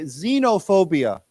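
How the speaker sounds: "xenophobia" begun with a z sound; X pronounced as Z. Shown as a demonstration. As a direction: model "xenophobia" clearly, starting zee-no. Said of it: "pronounced with a Z".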